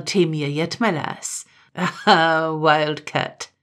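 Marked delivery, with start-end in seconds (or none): 1.7-3.5 low laugh. A narrator's reading. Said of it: "he laughed low".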